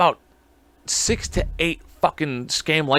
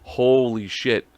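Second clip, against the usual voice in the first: slow stunned reaction; 2 semitones lower, much slower than usual. Real, not acted. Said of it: "and I'm like".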